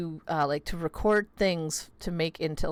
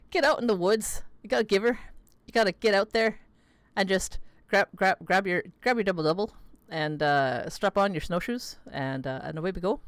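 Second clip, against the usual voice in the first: hammed-up rural Canadian. Streamer jokes to chat in a hammed-up rural Canadian accent. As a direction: ham up the rural Canadian accent like a backwoods local. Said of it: "just pull out the rural Canadian".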